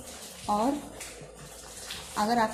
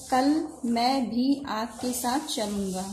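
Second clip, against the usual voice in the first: slow, with weight on भी; stress on भी; slower than usual. Shown as a demonstration. Teacher showing an example sentence, slow with भी stressed. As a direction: say मैं भी slowly, pressing भी. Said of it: "इस वाक्य को जोर दे के बोला जा रहा है".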